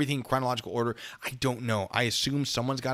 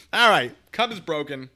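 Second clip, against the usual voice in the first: mock rage shout; 6 semitones higher, 8 dB louder than usual. Smashing cup for donation goal.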